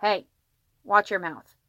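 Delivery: scolding dad holding back a yell; restrained call-out. Acted. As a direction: call out firmly without yelling. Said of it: "called out, trying not to yell".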